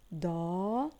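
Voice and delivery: "دار" split into long daa, pause, run; slow two-part sounding-out of "دار"; syllable by syllable. Shown as a demonstration. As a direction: stretch the first part of "دار", then add the ending. Teacher splits word into syllables.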